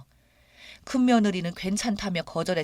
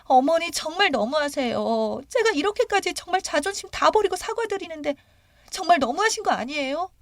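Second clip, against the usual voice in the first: tearful plea; 10 semitones higher than usual. Retold or imitated. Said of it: "울며불며".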